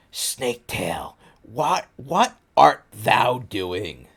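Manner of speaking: slow lightly voiced medieval Voldemort; a hint of archaic villain, drawn out slowly; old-fashioned Voldemort. Reader voicing Voldemort from the fanfic, slow and mock-archaic. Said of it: "sounds like he comes from the Middle Ages".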